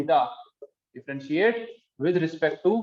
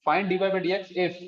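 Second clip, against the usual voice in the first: dictating; slower than usual. Real, not acted. Repeats dictated question for note-takers.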